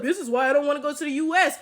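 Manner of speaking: mocking quote. Mocking the non-American commenter.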